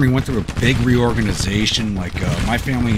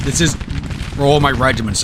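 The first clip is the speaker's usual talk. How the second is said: higher and louder, thrilled; excited; 6 semitones higher, 5 dB louder than usual. Real, not acted. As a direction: build up the excitement. Excited battle commentary.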